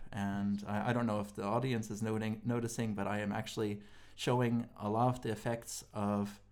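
tired, stumbling over words; sleepy stutter, real tiredness. Real, not acted. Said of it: "I'm stuttering right now".

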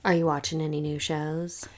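breathy whispered question; whispering. Real, not acted. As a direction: ask it in a hush. Sudden hushed question.

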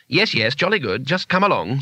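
gently humouring; mild coaxing of someone in shock; soothing. Acted. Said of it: "said Two-Flower soothingly".

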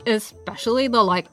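laid-back surfer bro, slowed; lazy, drawn-out dude talk. Acted.

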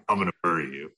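lightly voiced killer dog; a hint of a menacing dog voice; aggressive dog voice. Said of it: "they're all very aggressive".

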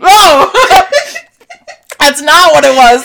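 loud high surprised laugh; surprised shout. Real, not acted. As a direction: burst out in relief. Relieved surprise at the fish news.

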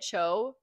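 CHO as one open syllable, no L; "Cho" with the final L left off; read as Cho. Shown as a demonstration. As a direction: say "Cho" rhyming with show. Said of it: "I read it Cho".

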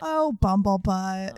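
slow, drawn-out cutesy cooing; shrill camp pantomime dame. Pretend.

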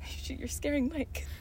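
slow, laughing and teasing. Real, not acted. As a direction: tease through laughter. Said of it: "that, like, scared me".

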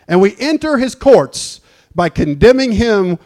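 the twisted verse said with a scornful edge; wrong version. Shown as a demonstration. Pastor mocking the wrong version of the verse, with a scornful edge. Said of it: "It does sound like the devil's book".

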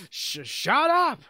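high, loud mock shriek; stuttered start into a yell; imitated screaming. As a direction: shout it like someone screaming from the back. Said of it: "Stamper screaming in the background".

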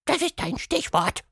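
high showman call; monster calling out. A narrator's reading. Quatschmonster to the mouse, high showman call. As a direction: point grandly at her.

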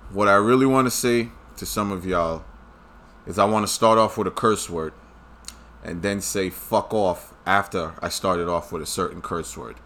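low, hushed restrained aside; quiet. Real, not acted. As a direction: hold back the curse under breath.

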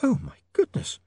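high, dazed, coming round; waking from a faint, confused; dazed young lady. A narrator's reading. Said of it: "she said, trying to sit up".

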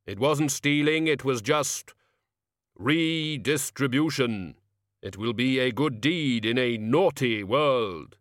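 solemn measured reaper, slow; grim reaper voice. Acted. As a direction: Death calmly explains himself. Death justifies the theft.

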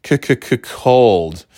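hammed-up stuttering on cold; exaggerated stutter. Shown as a demonstration. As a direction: drag out the c-c-c before cold. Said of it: "She has C dash C dash cold".

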